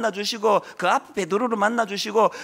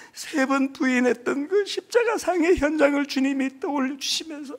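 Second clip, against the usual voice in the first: tearful; 4 semitones higher, 4 dB quieter than usual. Real, not acted. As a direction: voice breaking, higher and softer. Preacher weeps retelling the scene. (울먹이며 목이 메어)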